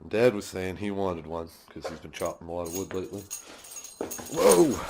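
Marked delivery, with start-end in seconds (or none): 4.3-4.8 sudden high startled cry; startled whoa. Real, not acted. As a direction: caught off guard by the dog. Dog suddenly jumps on him.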